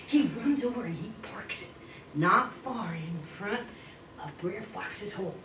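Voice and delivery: hushed, breathy storyteller whisper. A narrator's reading. Narrator whispering to the children.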